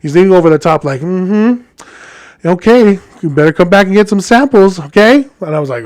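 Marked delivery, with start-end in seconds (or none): 1.0-5.3 lightly effeminate, suggestive imitation; feminized guy. Customer leaning over the counter to the driver, lightly feminized. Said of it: "I feminized it a little bit".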